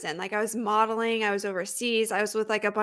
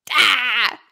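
mock cry; 2 semitones higher, 8 dB louder than usual. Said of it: "you were like".

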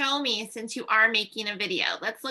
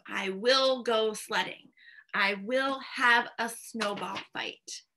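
slow model sentences; slower than usual. Shown as a demonstration. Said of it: "then we just have to change the verb tense".

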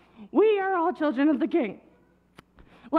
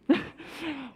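brief real chuckle; small laugh; 5 dB quieter than usual. Real, not acted. Children's leader chuckling between call-and-response lines, small laugh. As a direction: let out a little laugh.

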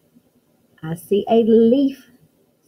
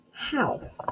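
soft model word; 6 semitones higher, 9 dB quieter than usual. Shown as a demonstration. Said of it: "do you know what this is?".

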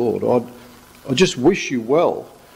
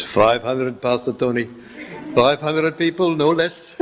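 mock South African Irish accent. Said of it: "that's the wrong accent".

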